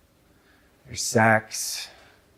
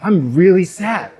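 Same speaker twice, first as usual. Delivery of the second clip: mock sad; 7 semitones higher, 4 dB louder than usual. Acting out a sad statement.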